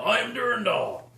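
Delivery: high, drawn-out heroic proclamation; hammed-up battle cry, not full volume; mock yell. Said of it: "you guys hear him yell".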